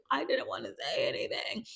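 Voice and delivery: imitating a little sister's defensive excuse. Gia answers her mom's accusation, high and defensive.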